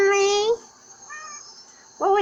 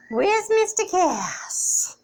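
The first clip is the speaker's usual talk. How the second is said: whisper; much slower than usual. Real, not acted. Owner whispering while searching for the sleeping cat. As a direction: hush it, don't wake him.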